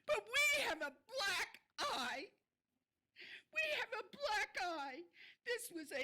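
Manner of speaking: fighting back tears, pitch up; crying. Real, not acted. A shaken resident at the city council, close to crying. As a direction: voice cracking high, near tears. Upset citizen repeating her point.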